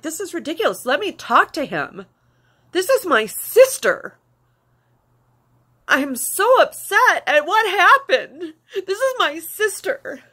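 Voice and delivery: pleading through sobs, slowing down; ugly crying. Real, not acted. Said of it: "sorry for the ugly crying".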